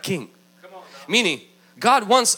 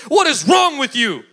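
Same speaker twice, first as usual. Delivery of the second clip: mock-upset telling-off; upset Jesus. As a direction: scold the disciples, easing off after the first question. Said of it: "Jesus is upset at them".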